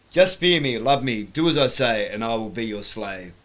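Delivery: hammy villain, loud then fading; bad acting. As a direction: ham it up, fading out. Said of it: "because I'm a terrible actor".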